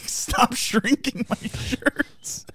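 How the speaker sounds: slow, high whiny voice; whiny complaint. Retold or imitated. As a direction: whine like a husband. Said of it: "I'm like".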